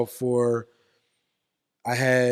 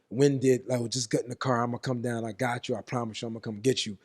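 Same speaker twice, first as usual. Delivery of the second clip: reassuring grandpa; 6 dB quieter than usual. Retold or imitated. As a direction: gently promise to come. Grandpa soothing him.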